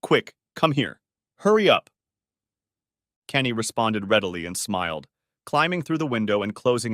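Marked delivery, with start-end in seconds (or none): 0.0-1.9 urgent, rising to a louder hurry; urgent hushed call. Acted. Girl urging Kenny through window, urgent. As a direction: beckon him in quickly.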